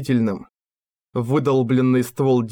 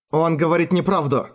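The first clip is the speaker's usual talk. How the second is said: higher, insistent, pressing each word; with pressure; 4 semitones higher than usual. A narrator's reading. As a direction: push the accusation hard. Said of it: "с нажимом сказала женщина". (с нажимом, настойчиво)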